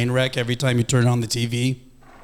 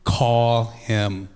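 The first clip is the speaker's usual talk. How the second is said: inner voice; 4 semitones lower than usual. Retold or imitated. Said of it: "I heard a voice".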